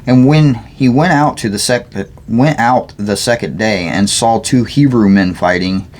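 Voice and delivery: measured, deliberate Bible reading; scripture read aloud. Real, not acted. Reader sharing scripture aloud, measured reading. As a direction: read the passage aloud clearly.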